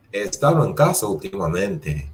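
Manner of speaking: casa falls as a statement; even declarative fall; statement tune. Shown as a demonstration. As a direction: drop down on casa, final. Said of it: "making a statement".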